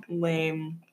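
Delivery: breathy whispered aside; conspiratorial whisper. Real, not acted. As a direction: drop to a whisper on the word. Whispered aside about boring donut.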